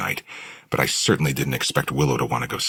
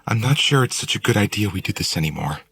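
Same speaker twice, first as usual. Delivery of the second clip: higher, louder female warning; stern young woman; 10 semitones higher, 5 dB louder than usual. A narrator's reading. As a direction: warn him firmly in a girl's voice. Willow warns, held character voice.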